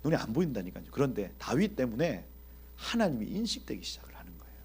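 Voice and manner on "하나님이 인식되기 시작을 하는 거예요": hushed, breathy and much softer; whispered. Real, not acted. Preacher whispering the key point to the congregation. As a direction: let it fall to a whisper to draw them in.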